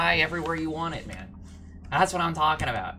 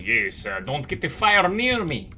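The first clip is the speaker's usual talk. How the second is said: mock Russian accent; 4 dB louder than usual. Gamer mimicking how the man sounded in the game, mock Russian accent. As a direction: imitate a weird Russian accent for a quote. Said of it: "that weird Russian accent".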